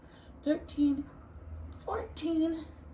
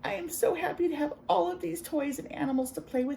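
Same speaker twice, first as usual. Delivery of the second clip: put-on happy kid; 5 semitones higher than usual. Sammy voiced happy.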